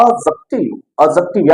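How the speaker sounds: एडजेक्टिव without a D, opening on a short "uh"; correct pronunciation. Shown as a demonstration. Teacher answers how it is pronounced, correct pronunciation. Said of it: "इसका उच्चारण क्या होता है".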